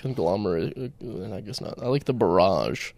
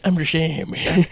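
high, slow, drawn-out goofy catchphrase; Adam Sandler; 6 semitones higher, 4 dB louder, slower than usual. Retold or imitated. Co-host trying Adam Sandler's catchphrase, high drawn-out impression. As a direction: stretch it out in a put-on comedian voice. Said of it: "give me your best Adam Sandler impression".

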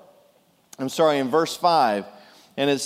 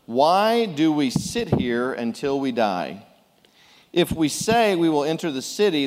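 scripture reading; 3 semitones lower than usual. Acted. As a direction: read the verses with weight. Preacher reads scripture aloud.

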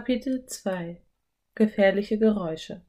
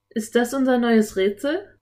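louder, keen question rising in pitch; expectant; 4 semitones higher, 6 dB louder than usual. A narrator's reading. Philipp asking about the new riddle, eagerly expectant. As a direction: ask full of anticipation. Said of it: "fragte Philipp erwartungsvoll".

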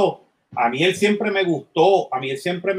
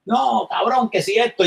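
Puerto Rican tough guy; 5 semitones higher than usual. Retold or imitated. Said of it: "el puertorriqueño".

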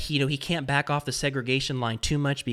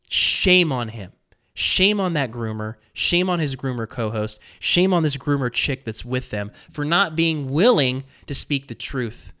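emphatic, louder shame chant; loud denouncing; 5 dB louder than usual. Real, not acted. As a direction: thunder out each shame. Denouncing the hosts.

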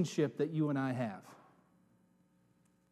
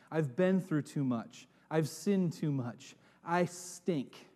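despairing refusal; 4 dB quieter than usual. Acted. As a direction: give up quietly, heavy-hearted. People voiced refusing, despairing.

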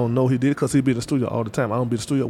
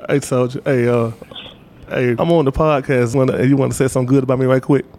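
calling out; 5 dB louder than usual. Real, not acted. Calling out to the phone.

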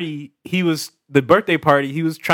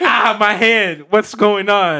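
a hint of a pained Harry, high and slow; 6 semitones higher, 3 dB louder, slower than usual. Reviewer lightly voicing Harry hurting his hand, pained. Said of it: "He'd be like".

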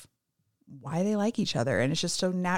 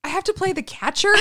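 laughing disbelief; 14 semitones higher, 6 dB louder, faster than usual. Retold or imitated. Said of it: "she goes".

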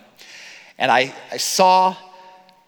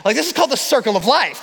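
laughing; 6 semitones higher than usual. Retold or imitated. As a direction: laugh as you refuse. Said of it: "I go".

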